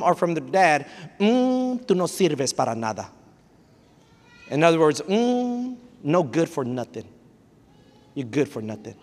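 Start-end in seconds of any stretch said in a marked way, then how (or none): 1.2-3.1 scornful parent put-down. Retold or imitated. Parent putting child down. 5.0-9.0 scornful parent put-down. Retold or imitated. Parent putting child down.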